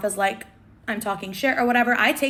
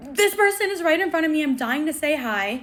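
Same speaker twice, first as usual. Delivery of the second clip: high-pitched pent-up thought; acted-out urge, high then easing and slowing; eager inner squeal; 6 semitones higher than usual. Fan trailing a star, dying to say hi, high eager inner voice.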